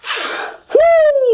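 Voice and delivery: long high falsetto sigh. Real, not acted. Vlogger reacting to a hard question with a high sigh.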